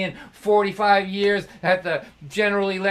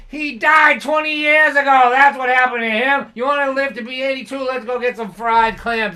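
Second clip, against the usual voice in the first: gleeful dad; 6 semitones higher, 8 dB louder than usual. Retold or imitated. Dad's triumphant punchline.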